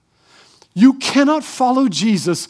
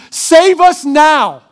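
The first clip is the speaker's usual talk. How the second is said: mock crowd plea; 4 semitones higher, 4 dB louder, much slower than usual. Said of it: "This is what they're shouting".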